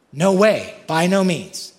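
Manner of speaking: a touch of pulpit thunder; firm refusal. Acted. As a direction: shut the idea down hard. Paul's forceful refusal.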